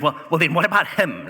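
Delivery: high, loud, indignant whine; whiny Peter. Acted. Peter sees John walk by and whines to Jesus, high and loud. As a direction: make him a jealous brother tattling.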